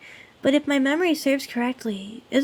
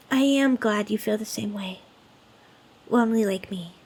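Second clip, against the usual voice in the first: tender; 4 semitones lower than usual. Acted. Tender confession of shared loneliness.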